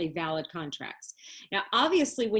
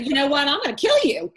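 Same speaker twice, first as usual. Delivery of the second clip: hammed-up threat, louder and fast; mock angry threat; 5 semitones higher, 7 dB louder, faster than usual. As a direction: play the student snapping into a fake death threat. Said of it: "now you're getting angry about this".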